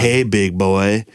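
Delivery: slow, low sultry purr; lightly done seductive phone voice; sultry woman voice. Retold or imitated. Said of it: "a strange woman in a sultry voice".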